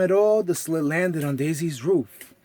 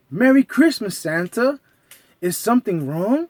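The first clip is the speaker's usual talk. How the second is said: Mickey voice; 4 semitones higher, 4 dB louder than usual. Acted. Mickey greets Santa.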